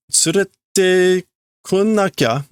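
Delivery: put-on high childish girl voice; voicing Nel. Little girl begging to be taken along, high voice. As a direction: read it as a small pleading girl. Repeating Nel's line in her voice.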